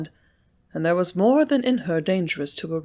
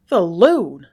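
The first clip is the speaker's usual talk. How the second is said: a sharp, louder exclamation; exclaimed; 7 dB louder than usual. A narrator's reading. Sloane scoffs at Lucy's news, sharp exclamation. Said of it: "ejaculated Sloane".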